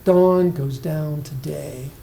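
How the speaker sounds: Dawn goes down today, slow, each beat even and falling; rhythmic reading. Shown as a demonstration. Teacher shows students the line's rhythm, slowly. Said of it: "it matches the nice rhythm there".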